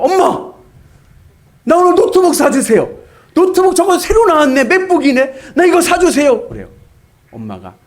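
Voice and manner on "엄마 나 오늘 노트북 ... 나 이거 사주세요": put-on high, loud childish pleading; begging son. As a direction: beg like a big kid. Grown son begging for laptop. (노트북 사달라고 조르는 대학생 아들)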